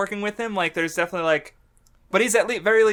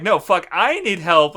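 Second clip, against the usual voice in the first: mock retort; 6 dB louder than usual. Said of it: "and it's like".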